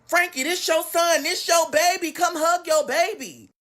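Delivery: high-pitched pleading aunt; acted-out insistent urging; urgent coaxing. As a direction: call it out high, dragging out the end. Aunt urges mother to hug son.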